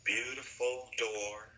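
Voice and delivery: calm, unhurried hypnosis guide voice; guided visualization. Acted. Guide asks client to picture a door, calm guided visualization. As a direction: gently lead into the imagined scene, with pauses.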